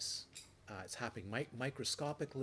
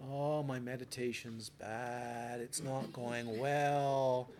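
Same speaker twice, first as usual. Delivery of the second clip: mock complaint; much slower than usual. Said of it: "You're not fooled into going".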